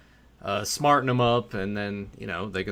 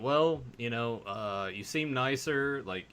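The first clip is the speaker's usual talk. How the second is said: soft explanation; 3 semitones lower, 9 dB quieter than usual. Retold or imitated. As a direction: talk him down gently. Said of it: "I'm like".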